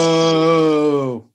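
long, held-out boo; mock jeer. Friend joining the booing of a film, playful jeer. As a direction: join in like a heckling crowd.

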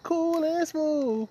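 slow, high, drawn-out smooth voice; cool and smooth. Retold or imitated. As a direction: croon it slowly, way up high. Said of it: "They could laugh like".

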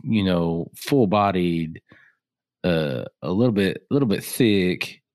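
smooth-talk it like a ladies' man. Shown as a demonstration. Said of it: "your ladies' man voice".

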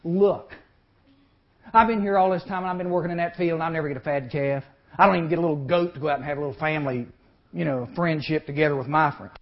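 put-on 2 loud resentful whine of the older son; 3 complain like you've been cheated for years; 4 older son griping to his father, aggrieved; 1 aggrieved complaint. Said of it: "What's the matter?".

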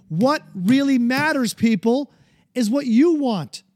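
getting heated about what really matters; worked up. Real, not acted. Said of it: "Sorry, I'm worked up".

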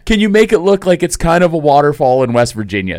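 goofy barber-chair request; mock customer request.

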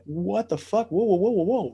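startled high yelps of protest; shocked. Retold or imitated. Retelling his shock at the brothel, high startled whoas. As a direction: recoil in alarm, pitch jumping up.

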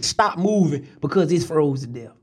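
usual speaking voice

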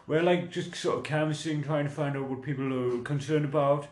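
shaky-skilled imitation of a southern English canvasser; mock southern English accent. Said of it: "he's from down south".

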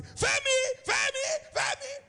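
high, carrying call of a name from far off. Retold or imitated. Friend shouting to wake him for class, high call. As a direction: call Femi from across the room. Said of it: "I heard my friend shouting".

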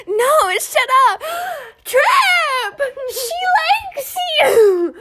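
high, loud giggly shout; mock shout at a crush across the room; laughing yell. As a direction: yell it back through laughter. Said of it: "And I'm just like".

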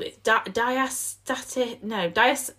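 halting attempts at "diastatic", breaking off at "dias-"; struggling to pronounce. Real, not acted. Podcaster reading a term off a leaflet, struggling to say "diastatic". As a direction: stumble slowly through "diastatic", then give up on "dias-". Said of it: "oh, I can't even say it".

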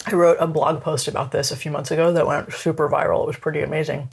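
talking while chewing ice; words round a crunch of ice; chewing noisily. Real, not acted. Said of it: "Sorry, I'm chewing a piece of ice".

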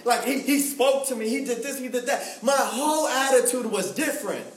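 preacher driving home a changed life; impassioned preaching. Real, not acted. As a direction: build the testimony with mounting fervor. Preacher builds to his point.

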